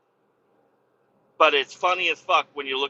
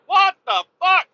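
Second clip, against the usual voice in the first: high, louder imitation of a dazed driver; imitating stunned driver; 9 dB louder than usual. Imitating the hit driver talking to him, high dazed outburst. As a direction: play the stunned guy in the car. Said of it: "He, he's like".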